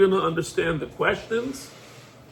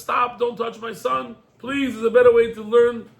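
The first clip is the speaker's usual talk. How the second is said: higher-pitched pleading of a protective mother; 5 semitones higher than usual. Retold or imitated. Mother begs the king to leave her son alone, higher-pitched pleading. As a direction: plead to stop, voice raised in pitch.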